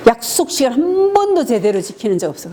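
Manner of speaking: imitating a spouse's blame; mock accusation. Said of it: "이게 이제 비난이고요".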